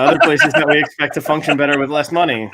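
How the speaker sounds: mock-earnest sarcasm; sarcastic, as if it were obvious. Real, not acted. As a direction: make the case with dry irony. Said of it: "That's sarcasm".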